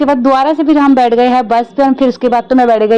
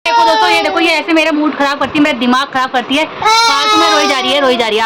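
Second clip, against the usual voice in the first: high, fed-up complaint breaking into a shout; exasperated complaint; 4 semitones higher than usual. Real, not acted. Mother complaining to viewers about her crying daughter, exasperated, rising to a shout.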